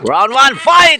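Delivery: arcade announcer calling the round; fighting game announcer. Acted. Starting the match again.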